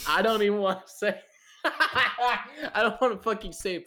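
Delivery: high-pitched, laughing too much to say it; giggly refusal, voice up high; laughing reluctance. Real, not acted. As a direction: balk at repeating it, laughing. Embarrassed to repeat crude bot bios.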